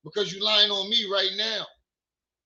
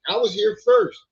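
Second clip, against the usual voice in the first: mock insistence; 4 semitones higher, 5 dB louder than usual. Real, not acted. Playful fight with daughter.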